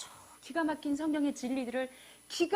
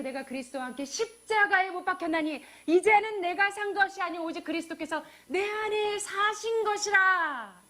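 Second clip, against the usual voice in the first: proclaimed scripture; 5 semitones higher, 6 dB louder than usual. Acted. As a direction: proclaim the verse with force. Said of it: "그래서 이제".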